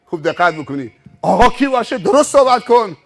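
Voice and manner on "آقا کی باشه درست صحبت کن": loud, raised-pitch challenge; indignant rebuke. Retold or imitated. Stranger throwing the driver's question back, indignant. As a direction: challenge them, then scold. Retold roadside quarrel.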